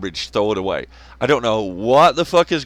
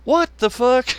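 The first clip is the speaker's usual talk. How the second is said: shocked disbelief; 5 semitones higher than usual. Retold or imitated. Viewer reacting to a wild claim, shocked high yelp. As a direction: squeal it in mock outrage. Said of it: "And you're like".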